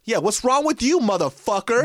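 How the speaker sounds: high-pitched, indignant challenge; mock confrontation. Acted confrontation with the condescending barista.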